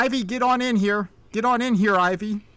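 stern mother ordering. Acted. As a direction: order your child indoors, urgently. Mother orders her girl inside.

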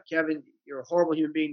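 quick self-critical remark at normal volume; retold negative self-talk, quick and matter-of-fact; inner critic. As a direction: scold yourself briskly, without raising the voice. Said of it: "negative inner critical voice".

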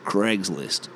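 CRAIGSLIST as "Cregs-list"; short E in Craigslist; mock Yank Cregs-list; American pronunciation. Shown as a demonstration. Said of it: "they'll say Craig".

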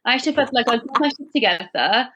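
put-on light Welsh accent, lilting. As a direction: tell the story in a Welsh accent. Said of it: "Could you please do it in a Welsh accent?".

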